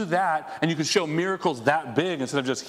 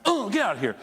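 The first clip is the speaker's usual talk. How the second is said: angry outburst; 6 semitones higher than usual. Retold or imitated. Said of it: "That's anger".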